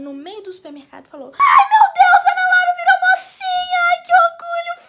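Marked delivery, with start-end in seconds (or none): 1.3-4.9 very high, loud, overjoyed shriek, easing toward the end; hammed-up proud mom screaming down the phone; mother's excited scream. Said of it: "Ela simplesmente gritou no telefone".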